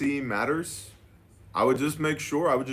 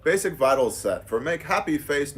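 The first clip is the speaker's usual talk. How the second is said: mock broken-English scam email; 6 semitones higher than usual.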